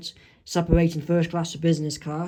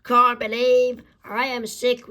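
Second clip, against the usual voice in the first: sick patient; 5 semitones higher than usual. Acted. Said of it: "this is what he's saying".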